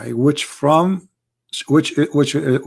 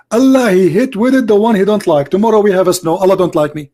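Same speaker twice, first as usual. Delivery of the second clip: mocking imitation of an opponent, pitched higher; mock Muslim voice; 4 semitones higher than usual. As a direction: lampoon a caller's smug reading. Mocking Muslim caller's claim.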